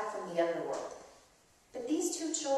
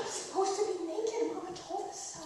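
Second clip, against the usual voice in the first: high, laughing through the words; 9 semitones higher, 6 dB quieter than usual. Real, not acted. Aunt laughing as she answers the excited child. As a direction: giggle it out.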